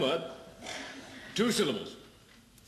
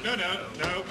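laughing protest. Real, not acted.

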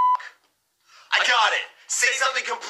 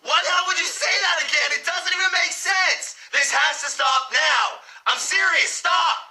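higher, fed-up yelling; angry protest rising in pitch; exasperated shouting; 5 semitones higher than usual. Acted. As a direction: yell at him to quit. Fed up with the echoing.

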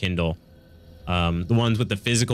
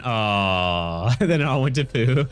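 laughing; much slower than usual. Real, not acted. Laughing about failed diet.

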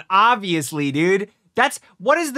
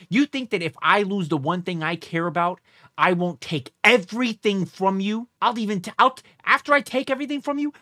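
crazed threat. Pretend. Viewer ranting as the wronged mother, crazed threat. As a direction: threaten like a mother who'd lose it. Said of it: "I, I actually sound crazy".

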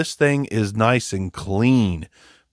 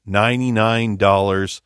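ordinary delivery

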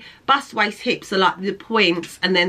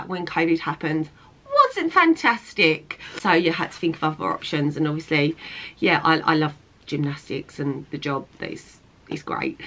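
choked up; 4 semitones lower than usual. Real, not acted. Talking about losing her work.

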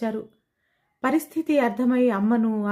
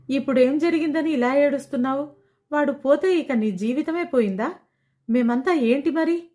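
higher, heated scolding; angry scolding; 5 semitones higher than usual. Acted. Swathi angrily scolding her crying friend, higher and heated. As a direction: snap at her to stop crying. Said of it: "కోప్పడింది Swathi".

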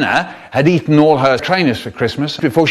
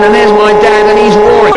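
loud; 6 semitones higher, 11 dB louder than usual. A narrator's reading. Narrating dad roaring.

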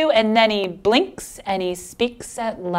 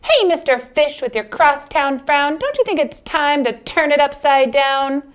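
lightly voiced clam; 6 semitones higher than usual. Clam voiced in picture book.

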